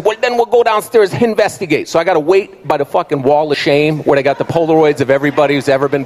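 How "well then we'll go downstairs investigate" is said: lightly voiced Jamaican guard; Jamaican security guard. Guard sends customer downstairs to investigate, Jamaican accent. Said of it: "the Jamaican security guard".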